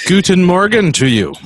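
mock German accent greeting; hint of a German accent. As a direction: say it like a cheery German, lightly. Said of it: "I can't do a good German accent".

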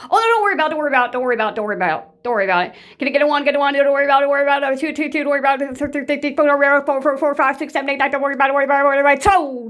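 high, loud dismissive mock chant; mocking narc. Mocking a narc who waves off an apology in a loud sing-song. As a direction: brush it off like a smug narc. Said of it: "A true narc will just sit there".

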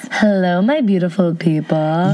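slow podcast-host greeting; imitating mom. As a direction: copy mom's intro line. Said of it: "That's my imitation of my mom".

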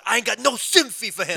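punchy mock wrestling promo, swallowing "sympathy"; botched wrestling promo. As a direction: mangle it like a wrestler's promo rant. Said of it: "he goes".

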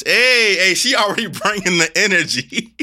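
loud, high, excited hey; excited greeting. Real, not acted. Host hyping up his big sis, excited. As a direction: greet the guest with a big burst of energy.

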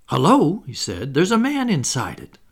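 surprised. Acted. John surprised at the kennel.

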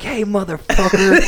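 high, slow mock confrontation; coming in hot. Ex-quarterback confronts a heckling fan, acted coming in hot. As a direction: imitate a man storming up to confront you. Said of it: "He comes in hot".

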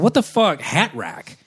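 high, stunned disbelief; shocked thought. Retold or imitated. Father realising what the hat racks really are, shocked. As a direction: jolt up in sudden shock.

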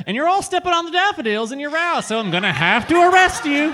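high, bright cheery lawman; folksy sheriff voice. Acted. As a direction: play a goofy small-town sheriff. Sheriff character introduction.

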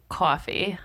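"coffee" with a New York "aw"; New York-accented "coffee"; New York pronunciation. Shown as a demonstration. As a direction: say "coffee" as CAW-fee, slowly. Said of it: "taking some New York words".

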